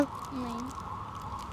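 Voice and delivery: a drawn-out, choked "नहीं" held in tears; crying. Acted. Denying to her friend that she is crying, a choked drawn-out no. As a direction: deny it while the tears win. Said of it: "तेरी आंखों में आंसू है।".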